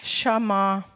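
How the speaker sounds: Schamar said low and careful, sha-MAR; Hebrew word Schamar. Shown as a demonstration. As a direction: spell out Schamar slowly for the group. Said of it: "nämlich".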